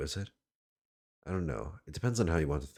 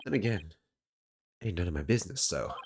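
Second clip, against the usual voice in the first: higher put-on New York voice, settling down at the end; bad New York accent; 7 semitones higher, 4 dB louder, faster than usual. Caretaker shrugs off the wasted horns, bad New York accent. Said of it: "my bad New York accent".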